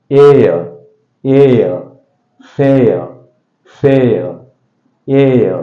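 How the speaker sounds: "Air" and "Fair" as drawn-out vowel glides; model pronunciation. Shown as a demonstration. Teacher has learners pronounce after him, careful model "Air", "Fair". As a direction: stretch "Air" and "Fair", gliding to schwa without an r. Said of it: "Pronounce it after me".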